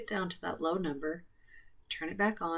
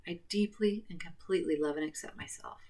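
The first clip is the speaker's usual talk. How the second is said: whisper. Acted. Whispered close of affirmation.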